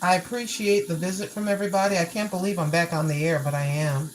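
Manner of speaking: talking through a toothbrush; while brushing teeth. Real, not acted. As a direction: mouth full of toothpaste. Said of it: "Yes, I'm brushing my teeth".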